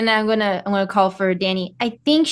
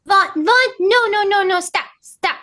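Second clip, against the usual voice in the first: urgent calling out; 9 semitones higher than usual. Acted. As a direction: call him back in alarm. Stopping Vaughn approaching armed man.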